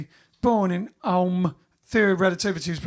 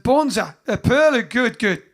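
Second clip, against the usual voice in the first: loud, higher, hammed-up Australian accent; punchy mock-Australian exclamation; bad Australian accent; 3 semitones higher, 5 dB louder than usual. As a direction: put on a really bad Australian accent, pitched up. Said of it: "That's my really bad Australian accent".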